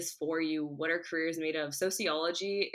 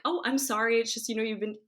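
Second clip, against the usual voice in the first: higher, gently apologetic dad; sweet dad; 5 semitones higher than usual. Retold or imitated. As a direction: soften it like a sweet, sorry father. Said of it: "he was being so sweet about it".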